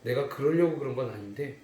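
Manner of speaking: mild trembling sob-story voice; trembling, tearful confession. Acted. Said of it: "막 벌벌 떨면서 울면서 얘기하는 거예요".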